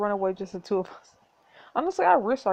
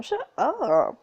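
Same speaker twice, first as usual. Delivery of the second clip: a mild mock shout; 5 semitones higher than usual. Dory shouts at the duke, mild mock shout. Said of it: "You turn around and shout".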